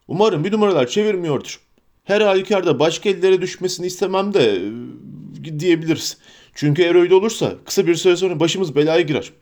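lightly voiced wary hobbit, quick; a hint of a distrustful servant; suspicious Sam.

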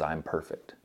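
low, soft, assured answer; lightly voiced God, calming a doubt; gently certain, dropped in pitch; quiet reassurance.

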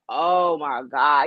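slow, drawn-out swoon. Retold or imitated. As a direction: melt over his accent. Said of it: "I'm just like".

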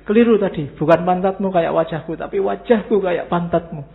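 loud, mock-indignant retold scolding; mock angry correction. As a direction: imitate an angry boss loudly correcting himself. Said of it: "Saking marahnya dia marahi supirnya". (menirukan majikan marah, meralat dengan suara keras)

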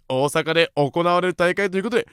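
spirited, emphatic message reading; rousing radio mail read; listener message read-out. Acted. Reads listener's message aloud.

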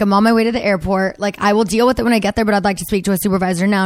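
rattled off fast, irritated. Retold or imitated. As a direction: fire it off quickly with mounting annoyance. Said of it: "I'm like".

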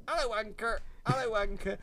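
high-pitched parrot imitation with an Irish lilt. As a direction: mimic a parrot repeating its phrase. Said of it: "the parrot would just say".

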